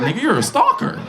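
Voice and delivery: high exasperated call-out; incredulous. Retold or imitated. Grandson calling out his grandpa, high and exasperated. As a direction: pitch it way up in disbelief.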